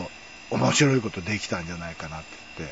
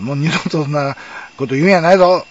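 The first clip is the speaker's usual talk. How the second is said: louder, higher scolding warning, retold; mock stern teacher; 5 semitones higher, 10 dB louder than usual. Teacher warning the student never again, mock scolding. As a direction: bark it like a teacher telling a boy off. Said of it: "みたいな感じでね".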